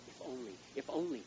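loud, high wail of regret to the Lord; hammed-up despair crying out to God; obsessing over the lost car, loud mock lament; mock anguish. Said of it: "you're sitting there going".

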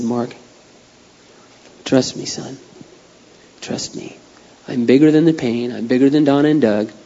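soft, hushed reassurance, partly breathed; tender voice of God. Retold or imitated. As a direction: comfort him gently like a father. Voicing God comforting him.

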